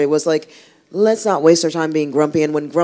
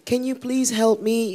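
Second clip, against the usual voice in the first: lightly voiced high plea, half laughing; pleading fisherman; 9 semitones higher, slower than usual. Fisherman asking Mister Happy to help with his boat, high and laughing. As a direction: ask for help in a raised, laughing voice.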